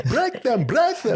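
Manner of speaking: loud, high Bulgarian coach's command; Bulgarian wrestling coach. Retold or imitated. Imitating a coach urging wrestlers on, high loud accented shout. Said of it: "talking about wrestling practice and a move".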